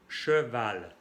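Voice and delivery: teacher announcing "cheval" in French; French pronunciation. Shown as a demonstration. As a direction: model "cheval" clearly for the class. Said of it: "Por ejemplo".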